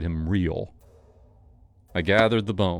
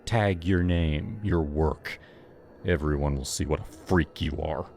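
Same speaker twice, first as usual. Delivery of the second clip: voice cold; 4 semitones lower than usual. Acted. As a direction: deliver it coldly, menacing. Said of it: "voice cold".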